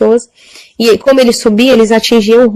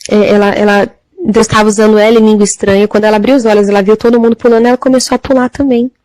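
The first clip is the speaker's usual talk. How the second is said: normal talking voice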